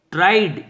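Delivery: ट्राइड ends on a plain d; tried with d ending. Shown as a demonstration. Teacher showing the d ending, careful demo. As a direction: say ट्राइड with a simple d. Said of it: "इसमें भी ड बोलें".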